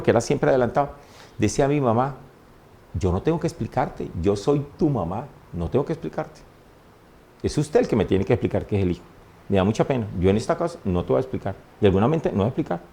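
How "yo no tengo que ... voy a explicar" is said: quiet, restrained mother's refusal; madre tajante. Retold or imitated. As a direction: refuse to explain, keeping the voice well down. Mother refuses to explain, retold. (negativa de madre en voz baja)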